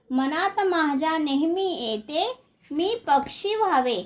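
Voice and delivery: measured, singsong verse reading; lilting schoolroom poem reading; poem recitation. Acted. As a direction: recite line by line, drawing out the line endings.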